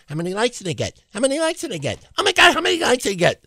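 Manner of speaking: small high voice, building to frantic; mock needy poster. Host mimics goofs hitting reload, mock frantic.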